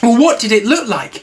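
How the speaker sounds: Christopher Robin voice. Acted.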